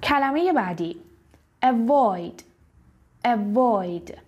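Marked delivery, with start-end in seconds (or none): 1.6-4.1 avoid with a weak uh start, stress on void; schwa a in avoid. Shown as a demonstration. Teacher modelling avoid for students. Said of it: "نگید avoid".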